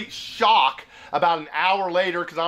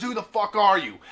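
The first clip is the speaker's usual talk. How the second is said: higher-pitched mock old-man challenge; cussing electrolarynx imitation; 4 semitones higher than usual. Old man demanding who visitor is, mock electrolarynx challenge. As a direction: imitate the hostile throat-buzzer voice lightly. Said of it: "He is cussing me out left and right".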